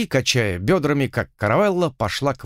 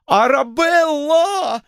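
much higher, louder drawn-out cry of pain; pained yell; 4 dB louder, much slower than usual. A narrator's reading. Lord pinned to the wall howls her name, high and loud. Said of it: "заорал он с вполне искренней болью".

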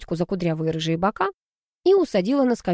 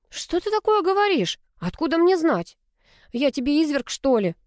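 much higher, dismayed protest; охая; 9 semitones higher than usual. A narrator's reading. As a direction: act wounded innocence. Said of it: "заохала я". (заохала, высоко и возмущённо)

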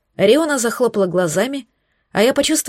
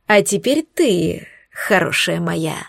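slow, low, menacing crooning; mock-tender threat, slowly; spiteful through teeth; 4 semitones lower, slower than usual. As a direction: drag out the sweet words with venom. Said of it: "злобно процедила Мойра".

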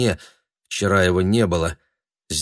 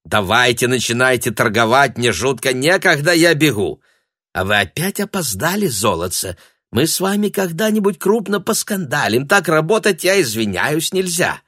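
bustling chide; 6 semitones higher, 3 dB louder than usual. A narrator's reading. Papandopol bustles, chiding.

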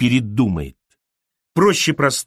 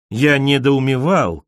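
ordinary delivery, nothing marked

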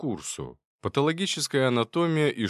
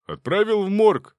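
much higher, loud brush-off; dismissive; 11 semitones higher, 8 dB louder than usual. Acted. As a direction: wave it away. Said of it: "махнул рукой".

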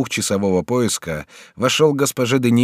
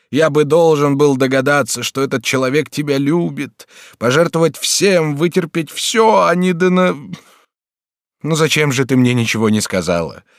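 high, loud sobbing lament; angry crying; 4 semitones higher, 4 dB louder than usual. A narrator's reading. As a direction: sob out bitter self-reproach. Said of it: "вскричал Бюва, рыдая".

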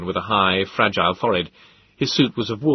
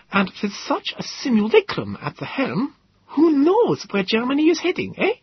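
pedantic professor. Acted. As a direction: spell out the Greek, pedantic. Gödel character voice.

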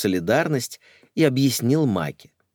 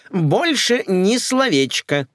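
high, slow and louder; a shrill vow of silence; flustered promise; 12 semitones higher, 5 dB louder, slower than usual. Acted. Николетта swearing silence, high and emphatic. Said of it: "замахала руками Николетта".

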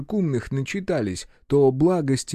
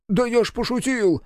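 much higher squeaky voice; squeak; 10 semitones higher than usual. Acted. Scared marquis backing down, squeaking. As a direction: squeak it out in a fright. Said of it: "пискнул маркиз".

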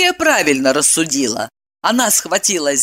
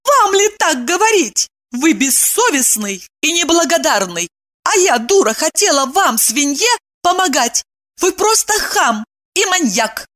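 indignant tirade; 10 semitones higher than usual. Acted. Evdokia insults him.

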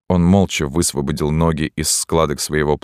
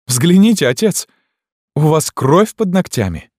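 much higher, louder scornful cry; mocking shriek; 13 semitones higher, 7 dB louder than usual. A narrator's reading. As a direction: jeer at the priest with a piercing shout. Esmeralda mocks the priest. (цыганка насмешливо кричит священнику)

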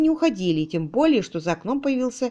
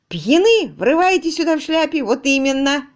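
high, loud outraged retort; 6 semitones higher, 5 dB louder than usual. Acted. The master, furious at the tutor's hat, shouting back. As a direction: fling the word back, furious. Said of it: "возмутился хозяин".

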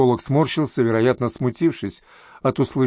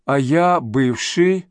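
slow, halting on «бывший»; stumbling on a word; 2 semitones higher, much slower than usual. A narrator's reading. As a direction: draw out «бывший» and break off. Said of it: "он споткнулся на этом слове".

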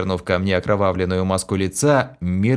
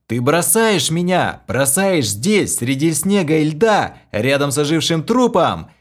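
despairing outcry; 8 semitones higher, 3 dB louder than usual. A narrator's reading. Hero despairs at abandonment.

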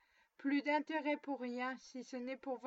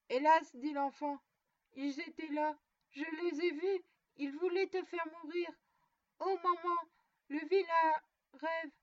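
put-on frightened child; 4 semitones higher, 5 dB louder than usual. A narrator's reading. Child tells a terrible nightmare.

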